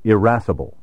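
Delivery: irascible opened with a short "ih" sound; short initial I. Shown as a demonstration. Narrator demonstrating the alternative pronunciation, short initial I in irascible. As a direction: say irascible as ih-RASS-ible. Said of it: "pronounced with a short initial I".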